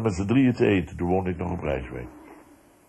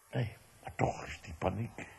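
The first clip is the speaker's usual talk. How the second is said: normal talking voice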